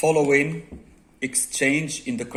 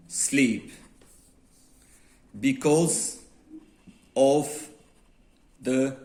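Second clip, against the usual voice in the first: slow with long pauses between words; teacher reading a model complaint slowly aloud; slow dictation; much slower than usual. Shown as a demonstration. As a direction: dictate each word clearly. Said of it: "For example, you would say".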